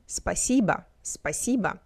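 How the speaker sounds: спасибо ending in an unstressed A; careful спасибо, final о said like A. Shown as a demonstration. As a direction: model спасибо clearly, last vowel as A. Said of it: "The last vowel is pronounced as A".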